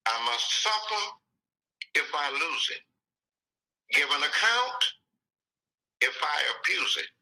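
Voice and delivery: poem recited line by line with long pauses; measured, deliberate recitation; slowed down. Shown as a demonstration. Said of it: "So let me slow down".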